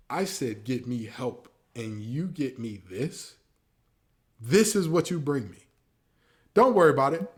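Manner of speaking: a lightly voiced Luka, building to a loud fed-up exit; pretending to be Luka. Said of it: "if I'm Luka Doncic".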